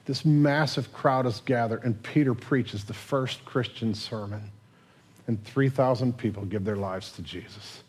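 normal talking voice

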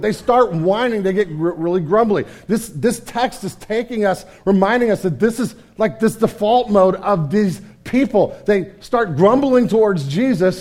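usual speaking voice

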